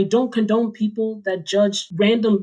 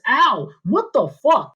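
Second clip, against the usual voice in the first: mock pained yelp; 4 semitones higher, slower than usual. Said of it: "she screams out loud".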